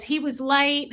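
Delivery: imitated country accent. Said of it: "repeating it exactly how she did it".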